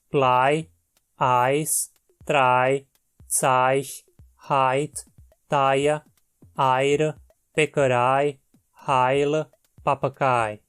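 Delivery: each ei said as the diphthong ai. Shown as a demonstration. Teacher demonstrates the ei diphthong. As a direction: model the ai glide, word by word. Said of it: "forma o ditongo ai".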